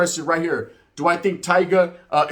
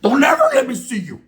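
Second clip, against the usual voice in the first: higher, louder warning shout; mock threat; 10 semitones higher, 5 dB louder than usual. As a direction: yell it like a threat. Threat to the attackers.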